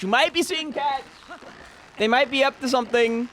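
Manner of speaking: high, excited tease about sneaky cats; playful conspiratorial. Acted. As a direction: spin it like a delicious conspiracy.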